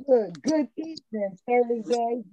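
muffled, as if through a wall; covered mic, muffled sound. Real, not acted. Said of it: "you sound muffled".

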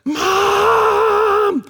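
high, loud shout of Mom across the house; high piercing child's call; child's yell. Retold or imitated. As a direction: call out like a small child yelling for mum. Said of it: "I just heard Layla going".

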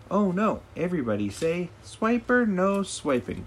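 high, loud call for everyone to join in, slowing on no swiping; rally the kids to shout it with you. A narrator's reading. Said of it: "called Dora".

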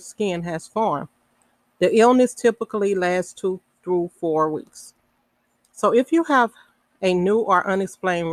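measured read-aloud of a health notice; reading information aloud. Real, not acted. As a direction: read it out sentence by sentence, with pauses between.

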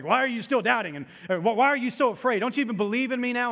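grumpy preacher voice. Pretend. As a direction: wag a finger like a cranky old preacher. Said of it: "old grumpy preacher voice on".

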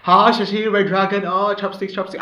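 high mock Asian accent impression; imitating a racist fake Chinese; fake foreign language. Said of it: "I'm quoting this, guys".

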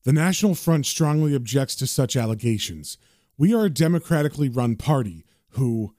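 acted reading from a paper; reading aloud. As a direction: read it out evenly like an official statement. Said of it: "begins to read the paper out loud".

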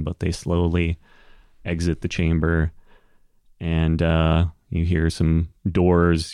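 ordinary delivery

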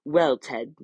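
chirpy TV weatherman; bright forecaster greeting. Acted. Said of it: "said the weatherman".

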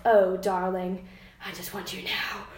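a lightly voiced swooning British lover; British accent. Shown as a demonstration. Reading Charles's longing line aloud, mock posh British. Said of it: "should I read it in an accent".

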